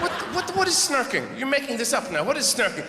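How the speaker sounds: high, incredulous what; hammed-up baffled outrage; indignant mock protest. Husband baffled by wife's made-up word, in a high incredulous protest.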